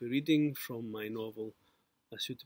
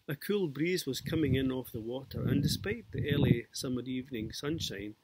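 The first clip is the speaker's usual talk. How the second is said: steady, louder reading-aloud voice; story narration; 4 dB louder than usual. A narrator's reading. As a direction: read the scene out to an audience, evenly. Author reads his novel aloud.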